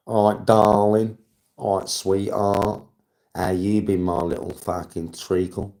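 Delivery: hammed-up, drawn-out endearments; slow, playful darling routine; mock sweet-talk. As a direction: pretend to sweet-talk, stretching the pet names. Mock sweet-talking a friend.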